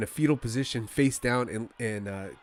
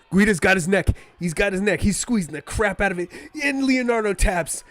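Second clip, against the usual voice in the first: calling the finish at the top of his voice, much higher and louder; excited shout; 8 semitones higher, 8 dB louder than usual. Real, not acted. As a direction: yell it like the fight just ended in front of you. Live call of a submission finish.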